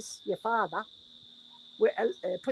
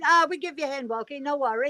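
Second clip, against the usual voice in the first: imitating cheerful helper; 4 semitones higher, 5 dB louder than usual. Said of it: "the black fella said".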